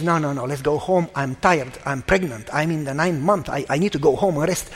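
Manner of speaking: mildly voiced weary plea to go home; tired wife, retold. Tired pregnant wife's refusal, retold.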